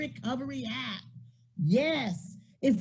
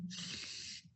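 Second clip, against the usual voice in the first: shushing; 18 dB quieter than usual. Retold or imitated. Quoting herself hushing people.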